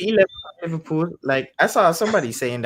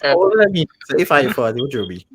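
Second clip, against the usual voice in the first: raised voice, challenging; loud comeback in banter; talking loud; 4 dB louder than usual. Real, not acted. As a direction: fire it back loudly. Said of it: "why you talking so loud".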